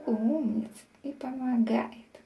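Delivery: slow tender whisper. Real, not acted. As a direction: whisper praise to the cat. Praising cat softly.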